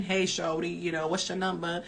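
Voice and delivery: a light, badly faked street-guy accent; mock a guy trying a pickup line, barely changed; horrible accent. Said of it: "That was a horrible accent".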